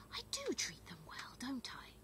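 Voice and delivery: fish nervously for comfort; anxious king. A narrator's reading. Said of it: "said King Fred anxiously".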